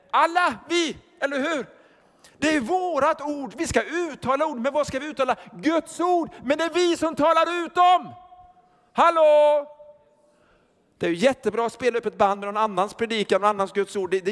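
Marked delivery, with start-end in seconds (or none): 0.1-8.1 higher, rising preacher's call; rousing preaching. Acted. Preacher rousing the congregation, higher and building. 8.9-9.7 loud, high call of hallå. Acted. Preacher waking up the congregation, loud call.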